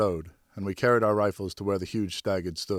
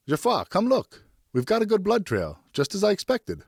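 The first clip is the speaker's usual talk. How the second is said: much higher, louder call out; excited call; 12 semitones higher, 4 dB louder than usual. A narrator's reading. Pear calling Geoffroy over to the blood trail, excited and loud. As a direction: call him over with the good news.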